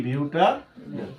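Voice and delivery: বিউটানেল said slowly, syllable by syllable; slow, divided model of বিউটানেল; sounding it out. Shown as a demonstration. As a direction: stretch each part of বিউটানেল for the class. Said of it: "উচ্চারণ কি হবো?".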